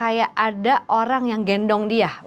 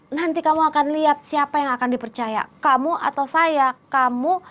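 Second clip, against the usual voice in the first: smug dare; 5 semitones higher than usual. Retold or imitated. Romi mocks her threat.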